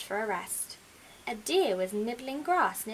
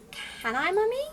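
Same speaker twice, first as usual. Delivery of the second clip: little owl voice; 10 semitones higher, 3 dB louder than usual. Acted.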